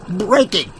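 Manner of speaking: punchy call to the crowd; rallying cry. Acted. Reporter urging his audience to break the news, shouting. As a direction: rouse the folks to break it. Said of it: "help me break this news".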